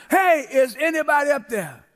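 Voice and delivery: lightly acted repeated call; measured mock holler; mild cry for help. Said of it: "Cried out one more time".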